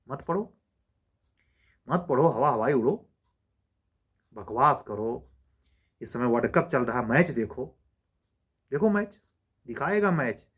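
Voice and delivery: scolding sarcasm in short, separated jabs; sarcastic. Real, not acted. Teacher taunting students who watch cricket instead of studying, sarcastic. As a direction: goad them with mock permission to slack off.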